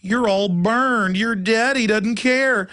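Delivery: mock a preachy social worker talking down; a hint of a condescending busybody; rude busybody. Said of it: "rudely said".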